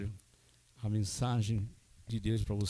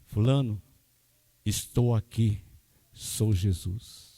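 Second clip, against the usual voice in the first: gentle voice of Jesus; 2 semitones lower, slower than usual. Retold or imitated. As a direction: speak it slowly as a tender divine voice. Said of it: "o pastor ouviu a voz".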